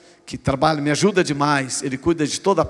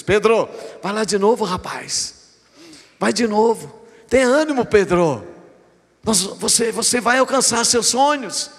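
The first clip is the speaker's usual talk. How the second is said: rousing encouragement; 5 semitones higher than usual. Acted. Jesus rallying Peter to try again.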